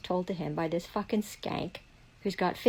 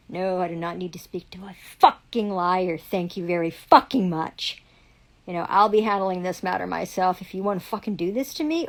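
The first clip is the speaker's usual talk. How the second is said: defiant shout; 7 dB louder than usual. Retold or imitated. Telling the police officer off, loud and defiant. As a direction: throw it back at the cop, loud.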